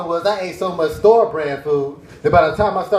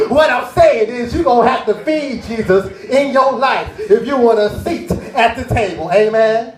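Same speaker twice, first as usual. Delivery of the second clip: mock preacher; 4 semitones higher, 3 dB louder than usual. Preacher's sermon continues.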